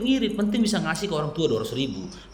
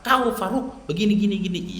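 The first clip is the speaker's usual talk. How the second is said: raised pitch, mock scolding; angry parents imitated; 2 semitones higher than usual. Parents scolding Farouk, mildly angry imitation. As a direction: mimic a cross parent telling off their son. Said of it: "Marah pun mereka".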